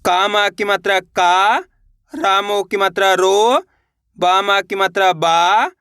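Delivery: slow drill, "का", "रो", "बा" each held long and rising; syllable-by-syllable spelling. Shown as a demonstration. Teacher showing learners her method to copy, slowly spelled out. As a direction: sound out each syllable, stretching "का", "रो" and "बा". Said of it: "ये देखना है कि मैं किस तरीके से".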